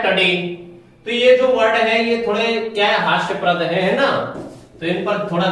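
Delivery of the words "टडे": टडे with a short neutral a after t, not u; टडे as ta-de, never tu-de; pure pronunciation. Shown as a demonstration. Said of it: "उसको शुद्ध बोला जाता है".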